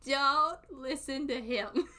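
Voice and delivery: loud, stretched-out, amused warning; emphatic protest. Real, not acted. Streamer warning anyone watching the clip, loud drawn-out protest. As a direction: belt it slowly, dragging out "don't".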